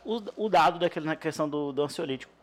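talking with a mouth full. Real, not acted. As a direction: speak through a mouthful of quiche. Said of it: "Galera, eu tô de boca cheia".

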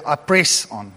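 reluctant, barely wanting to say the word; grudging. Shown as a demonstration. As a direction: say press like you hate to admit it. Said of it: "he almost doesn't want to say even the word".

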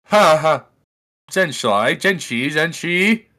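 slow, loud mock Chinese syllables; hammed-up fake Chinese words; fake foreign language. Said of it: "you trying to speak fake Chinese".

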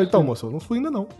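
fast, laughing repeat of the correction; laughing through it. Real, not acted. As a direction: crack up while insisting. Repeating, laughing while telling. (repetindo para a enfermeira, rindo e rápido)

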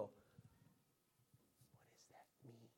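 very soft, low, musing whisper; pondering whisper. Acted. Someone puzzling over a riddle, pondering whisper. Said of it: "You go".

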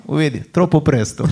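put-on laughing Sicilian Palermo accent; a touch of Palermo Sicilian accent; Palermitan accent. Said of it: "perché l'hai fatto con questo tipico accento palermitano?".

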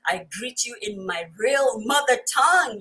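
usual speaking voice

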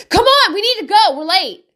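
impatient parent. Retold or imitated. Mother rushing her late toddler, impatient and loud. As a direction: hurry the kid out the door. Hurried parent demand quoted.

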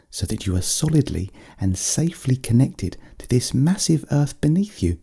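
gentle bear leading a visualisation; soothing grounding meditation from a small bear; little bear guiding. Acted. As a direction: guide a child into calm, phrase by phrase. Little bear leads grounding exercise.

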